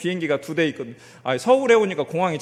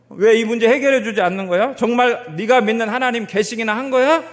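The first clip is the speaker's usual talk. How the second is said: raised-voice jeering challenge; mocking taunt; 4 semitones higher, 3 dB louder than usual. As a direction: taunt them like a scornful enemy, building louder. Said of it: "자기를 비웃으면서 하는 말을".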